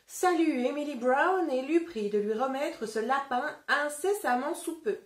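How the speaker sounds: put-on lively read-aloud for children; story reading. A narrator's reading. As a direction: tell it like a picture book to a class. Teacher reads the story aloud.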